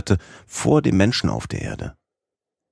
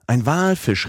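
Walfisch called even higher, falling; repeated excited cry; 8 semitones higher than usual. A narrator's reading. Professor repeats the alarm, higher excited call. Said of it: "rief darauf der Professor".

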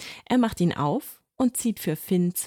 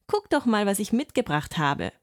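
calling out; 4 semitones higher than usual. Acted. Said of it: "ruft er".

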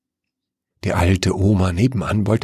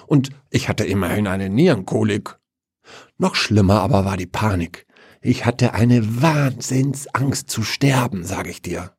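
aggrieved father; 4 semitones higher than usual. Acted. Father recounts his painful death.

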